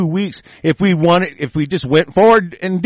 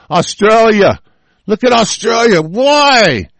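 shouting; 3 semitones higher, slower than usual. Real, not acted. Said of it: "We were screaming it at you".

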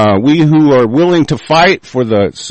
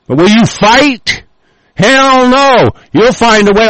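high, heated, scornful rant; real furious outburst; angry challenge; 7 semitones higher than usual. Real, not acted. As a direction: throw the challenge at them, voice raised high. Angry challenge to his opponents.

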